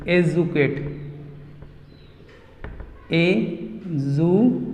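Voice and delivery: एजुकेट drawn out very slowly; slow model word. Shown as a demonstration. Teacher slowly models एजुकेट for students to copy. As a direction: stretch each sound of एजुकेट for the class. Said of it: "model pronunciation of educate".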